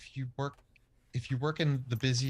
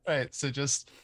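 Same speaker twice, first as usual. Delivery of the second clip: infomercial voice; 4 semitones higher than usual. Acted. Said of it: "sounded like an infomercial".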